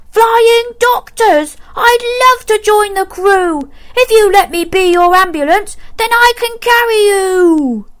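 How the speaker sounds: high, eager little dragon; a keen young dragon asking to help. A narrator's reading.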